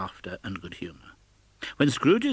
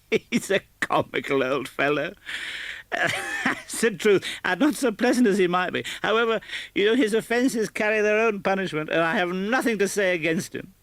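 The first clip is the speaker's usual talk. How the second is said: put-on high, laughing young man's voice; merry nephew; 10 semitones higher than usual. A narrator's reading. Nephew telling friends about his uncle, merry and amused. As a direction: play the jolly nephew, full of fun.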